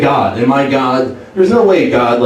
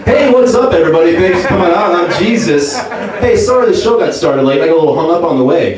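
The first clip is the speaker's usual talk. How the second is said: higher, upbeat club-comic patter; stand-up comic Jesus; 4 semitones higher than usual. Retold or imitated. Jesus on the cross opening his comedy set. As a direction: work the room like a cheesy headliner. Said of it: "I think Jesus Christ is probably the ultimate stand-up comedian".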